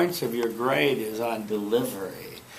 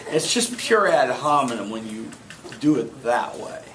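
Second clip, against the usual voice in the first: usual speaking voice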